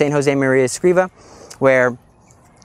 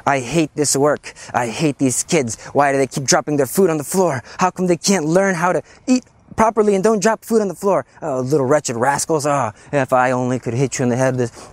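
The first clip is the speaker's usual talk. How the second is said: grumbling. Retold or imitated.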